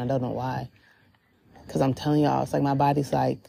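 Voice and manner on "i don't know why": getting emotional. Real, not acted. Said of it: "I'm getting emotional".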